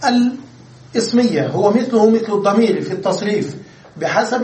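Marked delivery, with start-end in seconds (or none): 0.0-1.5 الاسمية drawn out slowly and lifted higher; teacher stressing الاسمية slowly; slow emphasis. Shown as a demonstration. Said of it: "يتصرف تصرف الكاف".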